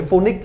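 "phonics" cut to FO-nik, no hiss at the end; missing final s. Shown as a demonstration. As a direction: drop the last s of phonics. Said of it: "không còn không có xì ở cuối".

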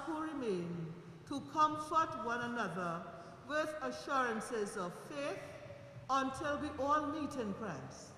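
solemn, measured prayer voice. Real, not acted. Funeral prayer over the coffin.

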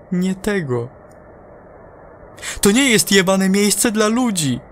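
an astronaut losing it over the radio; enraged crewman yelling his report; angry astronaut. Acted. Astronaut rages at command.

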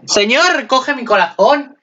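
high, slow, swooning plea to heaven; swooning fan begging for the couple; overwhelmed pleading. Real, not acted. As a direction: beg the sky, heart in hand.

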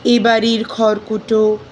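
measured, expressive verse reading with deliberate pauses; poem recitation. Acted. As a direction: recite the poem phrase by phrase, lingering on words.

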